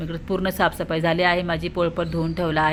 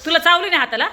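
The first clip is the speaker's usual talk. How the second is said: surprised question; 11 semitones higher, 6 dB louder, faster than usual. Real, not acted. Mother asks child about bite.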